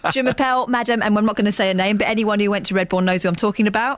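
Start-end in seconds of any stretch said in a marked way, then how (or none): 0.1-1.0 put-on French spoken with a broad Luton accent; comic Luton take on schoolroom French. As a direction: imitate a teacher's French in Luton tones. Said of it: "like, a Luton accent".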